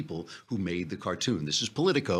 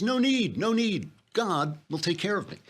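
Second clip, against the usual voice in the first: higher, smug dismissive pastor voice; self-righteous pastor; 10 semitones higher than usual. Retold or imitated. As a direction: wave them off piously. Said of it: "He says".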